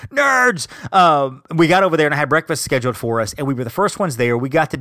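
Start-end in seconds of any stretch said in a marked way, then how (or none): 0.1-0.7 high-pitched, drawn-out "Nerds!"; mock nerd cry. Vlogger mocks himself for being a nerd, high taunting cry. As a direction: call it out high as a playful taunt.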